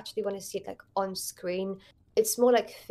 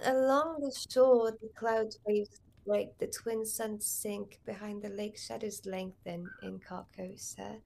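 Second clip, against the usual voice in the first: soft, fading recital of a poem; poem recitation; 3 dB quieter than usual. Shown as a demonstration. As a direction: recite it hushed and solemn. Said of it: "Can you still recite the poem?".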